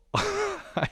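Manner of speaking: brief high chuckle; short laugh. Real, not acted. Storyteller breaking off mid-trip story, short laugh. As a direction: let out a quick laugh.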